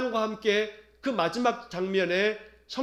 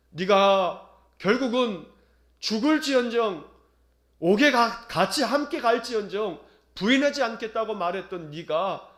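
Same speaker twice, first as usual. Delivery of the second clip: reproachful Jesus. Retold or imitated. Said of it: "책망하듯이".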